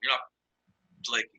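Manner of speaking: usual speaking voice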